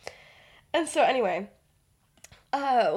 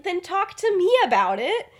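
put-on higher boyfriend voice; 8 semitones higher, 5 dB louder than usual. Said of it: "And he's like".

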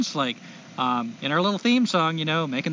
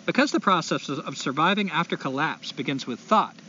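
put-on light SoCal accent reading a letter; California accent. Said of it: "I'm gonna try to do a California accent".

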